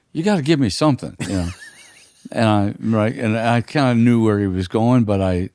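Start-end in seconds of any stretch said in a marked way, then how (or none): 0.1-1.2 pressing a singer. Retold or imitated.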